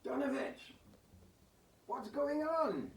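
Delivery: high, hushed then drawn-out cry; panicked noble calling out; shocked whisper-shout. Acted. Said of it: "And he's like".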